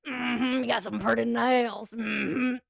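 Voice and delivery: imitating a slow Southern loner, hummed; Sling Blade voice. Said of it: "they do sound like Sling Blade".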